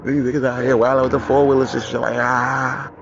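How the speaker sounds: loud high voice over engines; shouting over noise. Real, not acted. Host yelling over noisy four-wheelers outside, loud.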